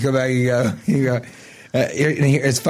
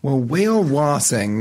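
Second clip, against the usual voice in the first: slow, stretched whale watching; drawn out; slower than usual. Retold or imitated. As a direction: drag out whale watching mockingly. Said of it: "I did not say it that long".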